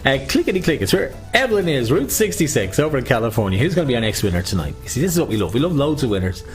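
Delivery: sing-song bingo call; bingo caller. Acted. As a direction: call the numbers out. Calling bingo numbers.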